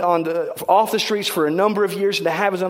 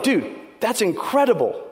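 retold excitement; 4 semitones higher than usual. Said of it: "I was like".

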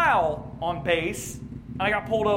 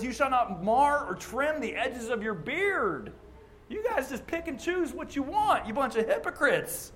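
mocking critic; 4 semitones higher than usual. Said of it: "hear people accuse us".

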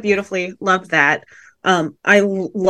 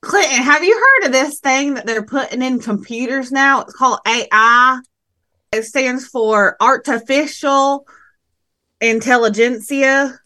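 put-on Southern accent. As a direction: play it in a folksy Southern accent. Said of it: "I finally found my Southern voice".

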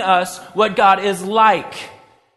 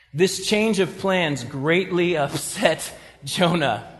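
amused reading; 3 semitones lower, 3 dB quieter, slower than usual. Real, not acted. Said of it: "That drives me crazy to read that".

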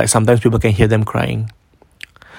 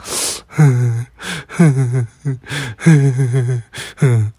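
man's crying moan. Retold or imitated. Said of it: "So the man's cry was a bit like".

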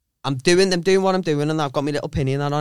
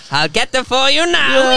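laughing reply; 7 semitones higher, 4 dB louder, slower than usual. Retold or imitated. Retold eager reply, laughing.

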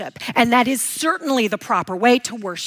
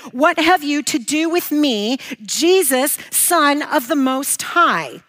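mildly raised voice, quoting a plea; crying out loud; 2 semitones higher than usual. Acted. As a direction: read it as a restrained outcry. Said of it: "crying out in a loud voice".

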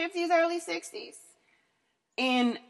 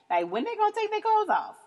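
laughing; 12 semitones higher than usual. Real, not acted. Laughing joke about the party.

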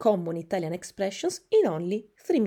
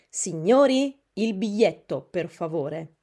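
polite, official train conductor; ticket inspector; 4 dB louder than usual. Shown as a demonstration. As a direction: call out like a conductor checking tickets. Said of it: "il controllore will say". (conductor asks passengers for tickets, officially)

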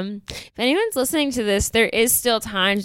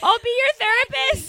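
sing-song offer; 12 semitones higher than usual. Pretend. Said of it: "I was like".

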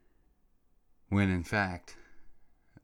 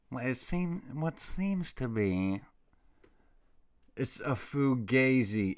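mock official voice; 4 semitones higher, slower than usual. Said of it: "mocking official briefing".

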